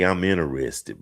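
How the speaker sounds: understated, courteous approach; not rude. Shown as a demonstration. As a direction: say it politely, without pushing. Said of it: "but not rudely".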